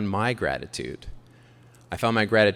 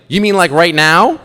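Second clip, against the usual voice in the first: laughing; 7 semitones higher, 12 dB louder than usual. Retold or imitated. Mom's pointed reply, laughing.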